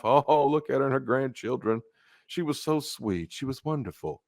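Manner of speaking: soft, cooing mock praise; mock sweet mourner. Mourners praising dead woman.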